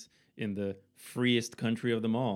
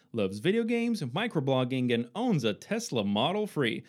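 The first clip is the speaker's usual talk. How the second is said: swooping ring-announcer delivery; mock announcer introduction; 2 semitones higher, slower than usual. Host introducing Norbert to everyone, grand announcer voice. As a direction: roll out the guest's credentials with showy emphasis.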